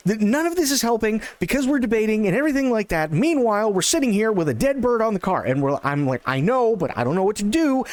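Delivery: high, fast, flustered; frantic bickering. Retold or imitated. Friends bickering over the dead owl, high frantic flustered. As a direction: rattle it off high and fast, exasperated. Arguing in panic in car.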